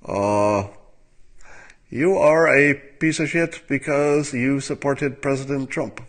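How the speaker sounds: a hint of a sneering online leftist; mild mock tweet read in a snide voice; lightly voiced angry liberal reading his insult; liberal impression. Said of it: "Here it is".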